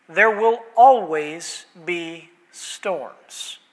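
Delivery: measured, emphatic address with long pauses; Jesus. Acted. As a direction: speak as a master steadying fearful followers. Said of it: "Jesus gets up and says".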